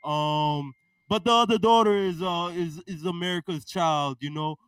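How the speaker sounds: lightly voiced blustering president; a hint of a rambling politician; president impression. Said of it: "Mister President".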